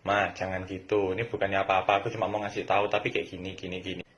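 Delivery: gentle, soft reply. Shown as a demonstration. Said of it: "Ngomongnya yang halus".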